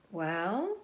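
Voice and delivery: breathy thoughtful whisper. Acted. Charlotte thinking before answering, whispered. Spider ponders.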